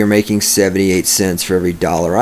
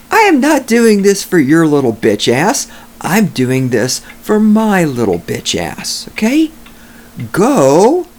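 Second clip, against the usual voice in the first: raised, heated rant at the commenters; angry rant; 6 semitones higher than usual. Real, not acted.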